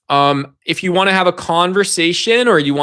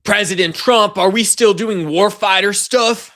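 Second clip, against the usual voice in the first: mock eager aide; 3 semitones higher than usual. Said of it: "Pete Hegseth".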